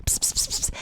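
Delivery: whispered psst to a cat; whispered cat call. Pretend. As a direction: call the kitty softly. Calling a cat.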